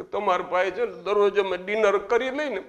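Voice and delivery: high wailing widow voice, rising; hammed-up sob story of a widow; mock weeping widow. Widow crying to the president about TV serials, mock wail. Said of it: "અને કે".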